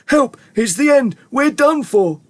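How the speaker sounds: high cries for help; high-pitched doom-laden wailing; panicked shout. A narrator's reading. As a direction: yell in despairing terror. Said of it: "Grandpa Joe shouted".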